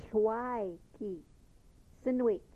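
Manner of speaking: "Shwaiki" with a breathy lateral hiss at the start, then a falling "Sinwik"; barred L demo. Shown as a demonstration. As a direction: show off the barred L clearly. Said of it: "There's your barred L sound".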